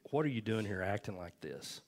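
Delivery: quietly repeated question, mildly gentle; gentle retold rebuke. Holy Spirit asking the praying preacher a second time, gently. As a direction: lightly voice a gentle correction. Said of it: "Holy Spirit just real gently said".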